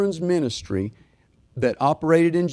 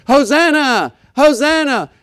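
high, loud Hosanna shouts; children shouting; 12 semitones higher, 12 dB louder, slower than usual. Retold or imitated. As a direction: cry out like excited kids.

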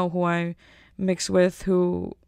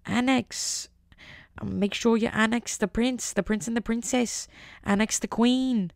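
lightly put-on British accent, slightly raised pitch; mock British campaigner; 3 semitones higher than usual. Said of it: "I'm not gonna be like".

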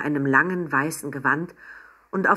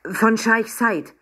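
slow, drawn-out proud name-drop; touch of pride; 5 semitones higher, 4 dB louder, slower than usual. Acted. Nervous Papa proudly tells the waiter, slow and drawn-out. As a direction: savour the sheikh's name. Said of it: "nicht ohne Stolz".

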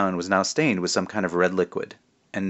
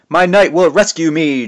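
much higher and louder, a boy playing a damsel; high-pitched princess voice; 8 semitones higher, 8 dB louder than usual. Boy princess on the altar calls out in a high voice. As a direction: squeak it out like a fake princess. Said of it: "in an unnaturally high-pitched voice".

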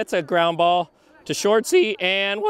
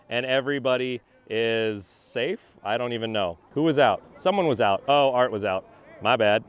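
put-on deep grown-up announcer voice, much lower; 10 semitones lower than usual. Kid calling his ball game in a deep voice. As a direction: drop the voice way down like a grown-up commentator. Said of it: "And I'm doing a deep voice".

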